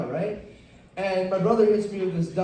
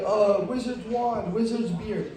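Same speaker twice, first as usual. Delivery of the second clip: monotone narrator; slower than usual. Retold or imitated. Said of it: "his voice never really changes".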